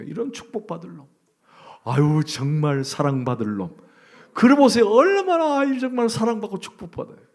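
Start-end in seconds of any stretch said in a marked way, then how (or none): 0.0-3.8 tender blessing. Shown as a demonstration. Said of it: "한번 해보세요".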